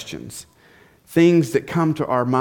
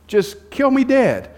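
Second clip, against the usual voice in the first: angry Jonah; 9 semitones higher, slower than usual. Retold or imitated. Preacher voicing Jonah begging God to die, hammed-up fury. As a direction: ham up a furious prophet begging to die. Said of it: "He is so angry".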